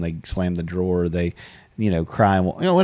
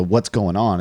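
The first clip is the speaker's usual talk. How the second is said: a slightly louder, pointed "What's going on?"; "What's going on?" as an irritated demand; accusing; 3 dB louder, slower than usual. Shown as a demonstration. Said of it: "It's not like a".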